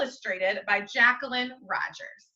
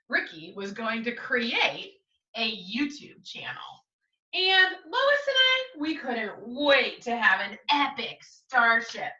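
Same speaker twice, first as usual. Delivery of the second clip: lively picture-book reading; story narration. Acted. Teacher reading the class a storybook, lively and clear. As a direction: read it aloud to young listeners.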